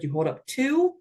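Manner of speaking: stiff robotic count. Shown as a demonstration. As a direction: call it like a robot. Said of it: "I'm saying it like a robot".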